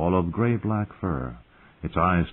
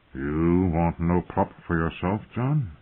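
soft; slower than usual. Acted. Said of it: "he asked softly".

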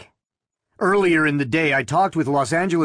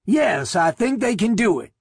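higher, rasping thin man; nervous thin man, rasp it out; 7 semitones higher than usual. A narrator's reading. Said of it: "said in a rasping voice".

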